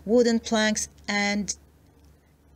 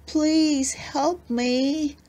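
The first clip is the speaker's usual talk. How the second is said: very slow, high, pleading monster voice; gargly creature voice; 7 semitones higher, much slower than usual. Acted. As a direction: drag the plea out like a trapped sea creature. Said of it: "deep and gargly and rather frightening".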